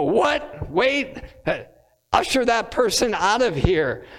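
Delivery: high startled yelp then a brisk order; mock shock. Wedding guests reacting to an interruption, mock startled outrage. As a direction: act out a guest's indignant double take. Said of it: "And we would go".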